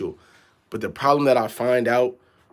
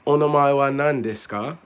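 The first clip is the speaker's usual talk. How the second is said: awkward learner reciting, a bit higher; lightly mocking beginner foreigner; stiff foreigner textbook Japanese; 3 semitones higher than usual. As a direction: sound out each phrase like a textbook drill. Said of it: "foreigners speaking like that".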